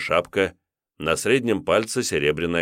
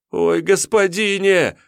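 высоко, протяжно, с мольбой; упасть на колени и молить; взмолился; 13 semitones higher, 5 dB louder, slower than usual. Acted. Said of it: "Анисим взмолился". (Анисим молит тиуна на коленях)

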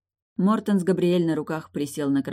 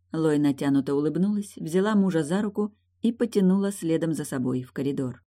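plain reading voice

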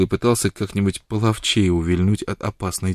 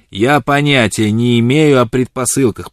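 grumbling; 3 semitones higher, 8 dB louder, slower than usual. A narrator's reading. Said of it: "проворчал он".

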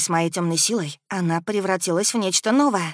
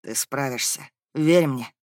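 encouraging prince; 6 semitones lower, slower than usual. A narrator's reading. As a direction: urge her to trust, from weakness. Fading prince encourages her from darkness. (низкий голос принца, ободряюще)

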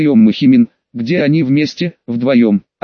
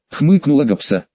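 plain reading voice

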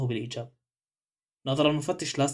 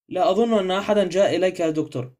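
lightly voiced country porter, a bit higher and louder; soft lazy porter; 5 semitones higher, 5 dB louder than usual. A narrator's reading. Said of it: "اللهجة الناعمة الكسولة للحمال".

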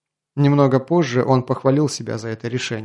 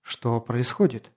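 muffled voice; 5 dB quieter, slower than usual. Acted. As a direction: ask it under your breath, muffled. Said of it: "чуть приглушив голос". (приглушённым голосом)

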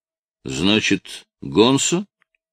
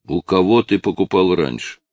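ordinary delivery, nothing marked

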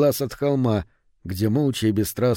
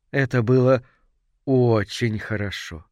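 blissful moaning. A narrator's reading. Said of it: "простонала Гей Кларк".

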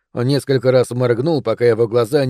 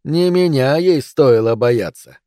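cold smug; slower than usual. Acted. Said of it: "превратилась в холодную улыбку".

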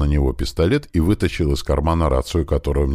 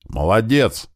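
shouted praise; 7 semitones higher, slower than usual. Acted. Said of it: "крикнул я ему".

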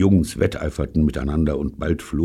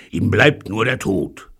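sighing; 5 semitones higher, 3 dB louder than usual. A narrator's reading. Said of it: "seufzte Pycraft".

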